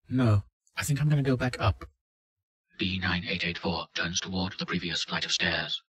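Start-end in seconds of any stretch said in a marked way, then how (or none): 0.1-1.8 raised, higher, weary and pleading; worn out, wanting to turn back; tired frightened woman. Acted. Subject refuses.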